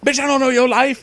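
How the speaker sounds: high, loud sassy snap in a mock voice; sassy comeback. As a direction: fling it out like a sassy diva. Sassy quoted comeback in story.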